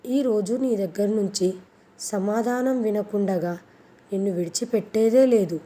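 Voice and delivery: husband insists on an answer from his bride, mildly shouted; shouting. Acted. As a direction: insist hard, raising the voice toward the end. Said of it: "Deepak మళ్ళీ గట్టిగా అరుస్తూ అన్నాడు".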